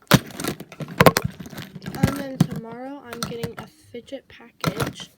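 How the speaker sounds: loud, slow, thrilled announcement; excited shout. Real, not acted. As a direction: drag it out and shout it. Excited news of a coming package.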